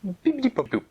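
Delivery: high sing-song spell words; magic spell. Acted. Fairy casting a healing spell on the fin. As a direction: cast it like a fairy godmother.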